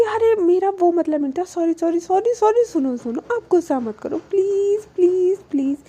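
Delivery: hurried apologies, then spaced-out pleases; mildly acted coaxing apology; placating plea. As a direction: gently plead to calm someone down, in imitation. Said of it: "Alisha को calm down करने की कोशिश कर रही थी".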